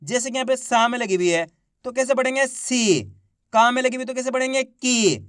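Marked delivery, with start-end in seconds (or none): 2.5-3.0 सी held long, then falling; drawn-out long ī. Shown as a demonstration. Teacher showing class how to read सी, drawn out. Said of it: "खींच के पढ़ेंगे". 4.6-5.2 की with a long, falling ī; drawn-out long ī. Shown as a demonstration. Teacher showing class how to read की, drawn out. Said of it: "खींच के पढ़ेंगे".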